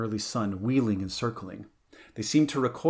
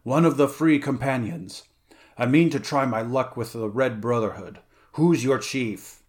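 loud challenge; 5 dB louder than usual. Acted. Conan challenges the pirate band.

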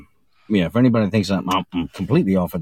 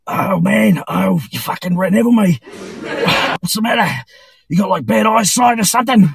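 put-on Australian accent, higher, angry but polite; mock outrage in a friendly Australian voice; polite angry Aussie; 10 semitones higher, 3 dB louder than usual. Aussie Dave after being hit by a truck, Australian accent, indignant. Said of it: "Australians are funny 'cause they're like".

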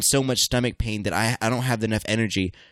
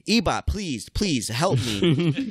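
high-pitched, drawn-out plea without real volume; mock scream; 5 semitones higher, much slower than usual. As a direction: act out screaming for help, stretching the last words. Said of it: "and I'm screaming".

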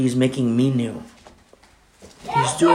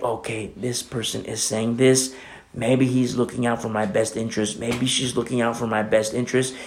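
quiet musing; 5 semitones lower, 7 dB quieter than usual. Retold or imitated. Weighing counsel, inner thought.

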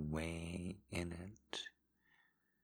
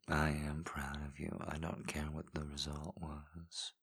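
intimate ASMR whisper. Acted. Voice in a lover's ear, guiding in whisper. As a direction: coax them on in a hushed whisper. Erotic audio whispered guidance.

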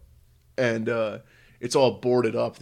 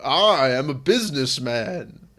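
mock businessman; 4 dB louder, slower than usual. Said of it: "you're just like".

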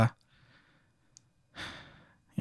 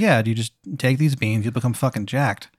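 a hint of a bad Maryland accent, softer; lightly done Maryland accent; 4 dB quieter than usual. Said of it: "In his terrible Maryland accent".

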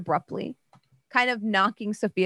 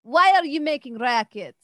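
spider voice; 6 semitones higher, 4 dB louder than usual. Acted.

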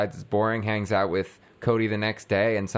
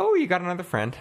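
mock mom; 9 semitones higher than usual. Imitating the mom sarcastically.

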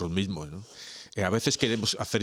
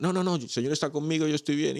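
stubborn believer; 8 semitones higher than usual. Acted. Stubborn believer voiced in joke.

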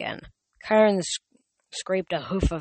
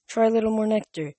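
gentle, sad; 5 semitones higher, 3 dB louder than usual. A narrator's reading. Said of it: "gentle but really sad".

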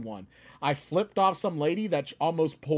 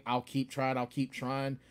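evasive excuse; 4 semitones lower, 7 dB quieter than usual. Retold or imitated. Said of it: "I'll make excuses or I'll say".

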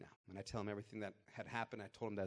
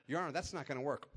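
firm defiance; 5 semitones higher, 6 dB louder than usual. Retold or imitated. Defying the judge in court.

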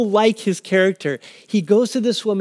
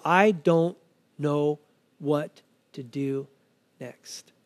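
slow, halting, softer delivery; lost and at a loss; 3 semitones lower, 4 dB quieter, much slower than usual. Acted. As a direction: spell out helplessness word by word, trailing away. Voicing someone lost, at loss.

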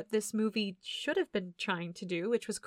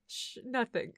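hushing mom; 7 dB quieter than usual. Retold or imitated. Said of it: "And the mom goes".

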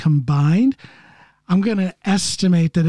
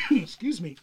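choking on coffee; 9 dB quieter than usual. Real, not acted. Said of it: "Choking on his coffee there".

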